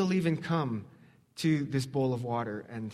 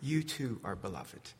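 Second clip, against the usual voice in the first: low, soft reassurance; softly spoken blessing; tender Jesus; 6 semitones lower, 8 dB quieter than usual. Acted. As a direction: say it gently, dropping low and quiet. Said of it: "Jesus stands alongside us and says".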